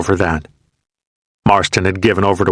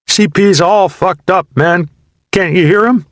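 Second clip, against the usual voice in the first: higher, louder frantic yell; panicked shout; 11 semitones higher, 4 dB louder than usual. A narrator's reading. Soldier under fire yelling at his buddy in panic. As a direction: yell it out scared.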